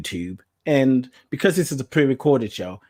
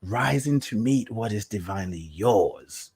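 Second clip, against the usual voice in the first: slow title read; 2 semitones lower than usual. Shown as a demonstration. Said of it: "The theme, the topic today".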